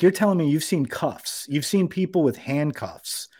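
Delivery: high-pitched retold disbelief; mock-incredulous questioning. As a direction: challenge it as if it's absurd. Retold challenge to the arrest claim.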